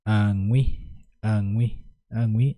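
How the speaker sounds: añui repeated with a lifting end; añui rising each time, like a teacher's drill; modelling a tricky sound. Shown as a demonstration. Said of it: "uno de los fonemas un tanto difícil de pronunciarse".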